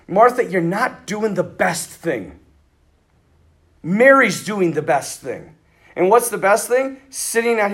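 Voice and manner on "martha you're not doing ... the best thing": gentle correction. Retold or imitated. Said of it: "He just says".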